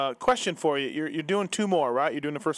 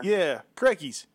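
mock Australian accent; 2 semitones higher, slower than usual. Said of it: "pretty bad accent".

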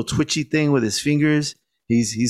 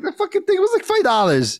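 much higher incredulous yell; mock outraged yell. Shopkeeper scolding a thief who offers a quarter, incredulous yell. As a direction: blow up at the price, voice leaping high.

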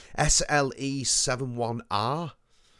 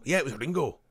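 Dennis Lill impression. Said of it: "why I'm doing a Dennis Lil".

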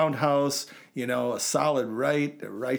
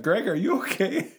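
concerned friend; 8 semitones higher, 3 dB louder than usual. Retold or imitated. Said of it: "You're looking at me like".

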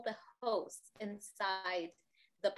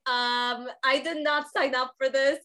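laughing; 13 dB louder than usual. Pretend. Imagined shocked videographer.

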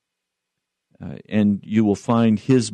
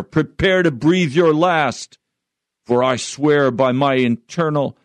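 raised-pitch villain's vow; menacing threat; 5 semitones higher than usual. Acted. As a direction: threaten him like a story-book fiend. Villain threatens hero in story.

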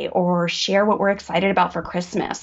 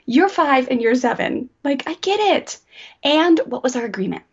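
put-on gently higher, understanding voice to the kids; empathetic parent; 4 semitones higher than usual. Shown as a demonstration. Mom showing her kids she gets it, warm and understanding. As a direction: soften and meet them where they are. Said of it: "this, you roll right into empathy".

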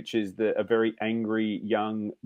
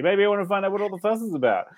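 higher-pitched imagined moviegoer warming to the idea; tentative curiosity; 7 semitones higher, faster than usual. Acted. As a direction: act out someone talking themselves into it. Voicing curious would-be moviegoers.

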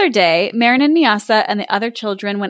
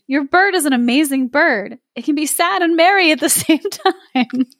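amazed villagers; 5 semitones higher than usual. Acted. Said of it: "the villagers exclaimed".

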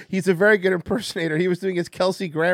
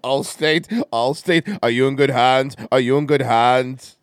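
Allstate ad voice; 5 semitones lower than usual. Pretend. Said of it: "Do the voice".

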